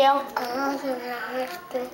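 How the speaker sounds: talking through a mouthful; words round a bite of food; mouth full. Real, not acted. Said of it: "Without your mouth full".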